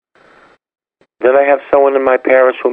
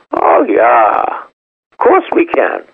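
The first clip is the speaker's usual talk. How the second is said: eager yes; slower than usual. Retold or imitated.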